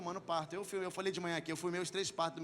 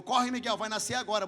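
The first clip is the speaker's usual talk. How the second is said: doctor's hurried call, slightly raised; urgent retold call; 3 semitones higher, 6 dB louder than usual. Doctor urgently calls as birth starts. (chamado urgente do médico, imitado)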